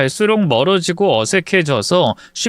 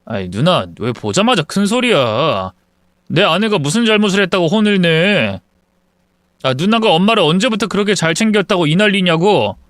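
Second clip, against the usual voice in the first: defensive younger brother; 2 semitones higher than usual. Acted. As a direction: push back at the sister, fast. Son snaps back at sister. (누나에게 짜증 내며 따지는 남동생)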